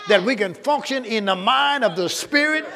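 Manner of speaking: preacher marvelling at the privilege; rising excitement. Real, not acted. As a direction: build it up to a joyful peak. Preaching builds to a peak.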